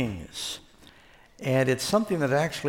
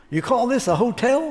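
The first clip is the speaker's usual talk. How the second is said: high, loud mock outrage; scornful Texan; 10 semitones higher, 5 dB louder than usual. Texan rancher scoffing at the London hotel manager, loud mock disbelief. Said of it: "he looks at it and he goes".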